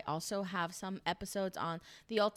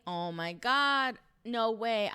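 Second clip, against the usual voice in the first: loud, drawn-out mock astonishment; imitated delighted disbelief; amazed recognition; 6 dB louder, slower than usual. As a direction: act out a stunned reunion, drawing out God. Acts out an excited recognition.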